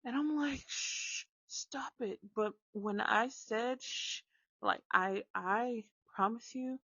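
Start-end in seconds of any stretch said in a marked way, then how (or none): 0.7-2.2 unvoiced, hushed shush to a child; whispered shush. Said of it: "was so loud". 3.8-4.2 retold shush. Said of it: "was so loud".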